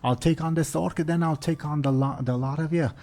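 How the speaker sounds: high-pitched, fired-up dwarf; blustering dwarf. Acted. Dwarf in the fighting pit challenging all the ogres, high blustering voice. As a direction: brag defiantly as a scrappy dwarf. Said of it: "the dwarf in the fighting pit says".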